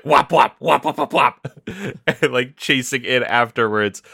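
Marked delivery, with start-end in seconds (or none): 0.0-1.5 gun sound effect. Retold or imitated. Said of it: "which is like".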